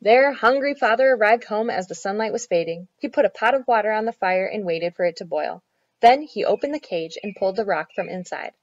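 put-on measured storytelling for children; story narration. A narrator's reading. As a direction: read it out clearly like a picture book. Reads a children's story aloud.

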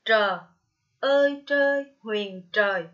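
loud "Trờ" with the tongue curled up. Shown as a demonstration. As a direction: spell out "trời" loudly, curling the tongue back for tr. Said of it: "đọc con cong lưỡi lên". (đánh vần "trời" to, cong lưỡi)

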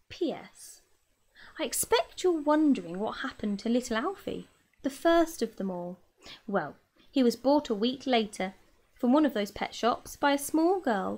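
lively read-aloud storytelling voice; gentle children's book reading; story narration. A narrator's reading. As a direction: read it like a bedtime story for kids.

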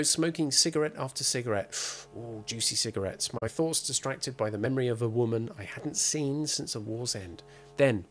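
lightly hard-boiled detective read; noir narration. Acted. Reading a pulp noir novel to the player, hard-boiled. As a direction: tell it like a weary private eye.

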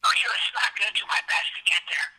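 real anger held in a low voice; furious low voice. Real, not acted. Late caller promising to get there, furious low voice. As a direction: fume without raising the voice. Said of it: "I'm fucking furious".

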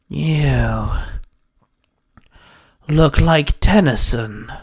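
slow, grunted character line. A narrator's reading. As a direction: grunt it out slowly, with some force. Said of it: "Hex grunted".

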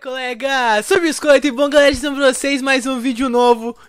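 high, loud greeting to the viewers; YouTuber intro. Acted. Gamer greeting viewers with a new Hypixel video, hyped intro. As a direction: belt out the channel opener, pitched well up.

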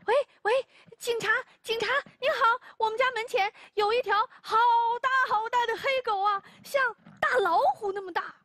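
high, urgent report to the police; panicked phone call. Acted. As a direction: rush the words, frightened. (慌张地打电话报警)

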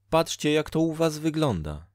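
high-pitched reproachful woman; Dola, disapproving fate-woman. Acted. (wysoki, karcący głos Doli)

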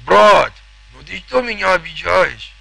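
hammed-up southern accent, ribbing a friend; mock Caucasian accent. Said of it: "корни, сами понимаете". (шутливый кавказский акцент)

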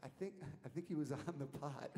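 imitated mother with a Southern accent. Boy's mother explains on the phone, imitated Southern accent. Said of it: "in a very heavy Southern accent".

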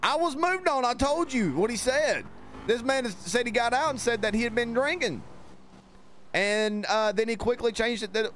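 annoyed, voice pushed high; irritated and insistent; exasperated. Real, not acted. Officer exasperated at partner.

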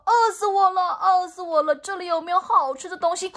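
panting pig. Acted. Tired pig arriving last and begging for food, mildly panting. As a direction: gasp it out like a sweaty, hungry pig. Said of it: "喘着气说".

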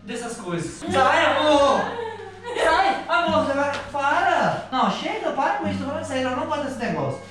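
high frightened pleading. Real, not acted. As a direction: push her away, scared. Frightened by the zombie.

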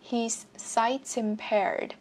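slow "He's sight impaired" with "He's" joined to "sight"; linked S. Shown as a demonstration. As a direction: let the S of "He's" flow into "sight". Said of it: "Nối luôn chữ S vào". ("He's sight" nối liền âm S, đọc chậm)

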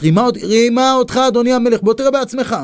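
high, insistent accusation; acted-out indignant informer; agitated inciting. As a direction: press the king urgently with the scandal. Advisor inciting the king.

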